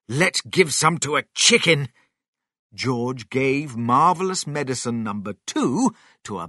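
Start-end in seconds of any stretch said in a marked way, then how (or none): 0.1-1.9 eager, higher and louder character line; excited. A narrator's reading. Mister Cranky urging a test on the chicken, excited. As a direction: pipe up with excitement. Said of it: "Mister Cranky was excited".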